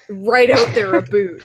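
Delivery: "a boot" for "about"; boots his abouts. Retold or imitated. Imitating a friend who boots, "about" as "a boot". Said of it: "He boots like".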